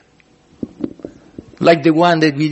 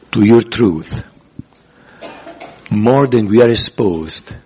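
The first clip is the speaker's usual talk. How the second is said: measured prayer in short, paused phrases; deliberate congregational prayer; leading prayer; 5 semitones lower than usual. Real, not acted. Leads closing prayer.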